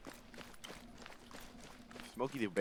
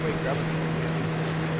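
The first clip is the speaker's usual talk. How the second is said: shouting over engine; 5 semitones higher, 7 dB louder, much slower than usual. Real, not acted.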